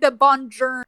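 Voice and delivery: put-on drawled American-accented Italian greeting. Mimicking the film hero's bad Italian, American accent. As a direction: say it with a hard American R. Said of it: "he has, like, that American accent".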